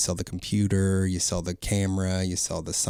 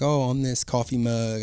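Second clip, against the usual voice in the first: auctioneer voice; 4 semitones higher, 4 dB louder than usual. Shown as a demonstration. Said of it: "You wanna hear it?".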